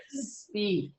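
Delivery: soft, drawn-out inner voice command; voice in head. Retold or imitated. Medium recounting the voice in her head, soft command. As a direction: imitate a quiet voice heard in the head. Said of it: "And he just said".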